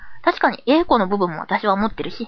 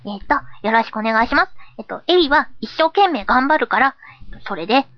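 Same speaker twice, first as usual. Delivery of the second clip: put-on lightly childlike persona; 2 semitones higher than usual. Persona promising to do their best, lightly childlike. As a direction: stumble through, then finish perkily. Eager persona asks for support.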